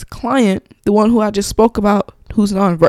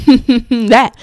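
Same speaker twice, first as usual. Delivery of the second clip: mock laugh; 3 semitones higher, 4 dB louder than usual. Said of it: "I was just like".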